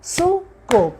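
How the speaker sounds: "suco" high, clapped out as su, co; syllable by syllable. Shown as a demonstration. Teacher showing how to use the palm, syllable by syllable. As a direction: clap "suco" high, one beat per syllable. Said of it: "a gente usa a palma".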